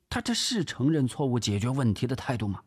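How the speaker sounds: high-pitched indignant protest; indignant complaint. Acted. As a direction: complain in disbelief, rising high at the end.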